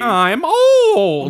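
high, loud, drawn-out fake lament; hammed-up self-pity; mock wail. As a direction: wail it playfully, half laughing. Mock wail after losing her thought.

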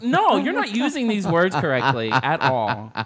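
emphatic, drawn-out objection; exasperated correction. Retold or imitated. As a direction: correct him slowly, exasperated. Retells scolding her date.

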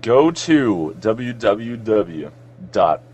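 very slow, spelled-out outro read; announcer sign-off. Acted. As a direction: draw out each part like a radio outro. Reading out show website at end.

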